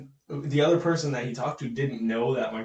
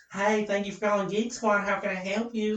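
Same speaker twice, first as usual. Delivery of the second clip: higher-pitched camp country twang; camp country accent; 4 semitones higher than usual. Retold or imitated. Coworker answering the Geek Squad phone, camp country accent. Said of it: "like, gay country".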